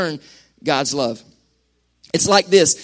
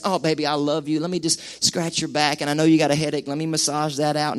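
soft lower cooing, mock doting; doting sweet talk; 5 semitones lower, 7 dB quieter than usual. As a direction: lay on the sugary care, softly.

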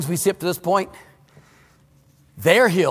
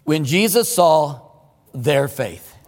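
slow, deliberate scripture reading; 4 semitones lower, much slower than usual. Shown as a demonstration. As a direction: read each word very slowly. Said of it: "Take a look at it. Verse five".

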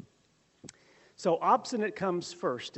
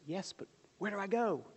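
higher, anxious pleading; panicked plea; 5 semitones higher, faster than usual. Acted. Christian pleading with Evangelist in panic, higher and anxious. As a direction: voice a frightened man begging for direction.

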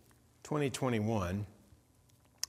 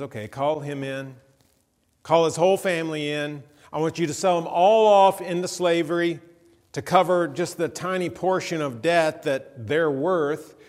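a king's rising command, louder by the line; stern king's order; 3 semitones higher, 6 dB louder than usual. Acted. A king condemning a debtor, then a rising loud order. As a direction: call the whole family in, building to full volume.

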